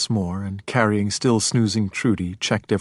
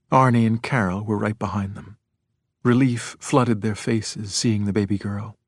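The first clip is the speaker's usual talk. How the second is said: plain reading voice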